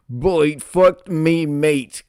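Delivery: mock yelling. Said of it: "so she's yelling".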